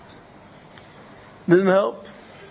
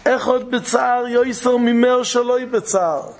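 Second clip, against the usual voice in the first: slow solemn quote; 4 semitones higher, slower than usual. Shown as a demonstration. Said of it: "quoted saying, repeated slowly".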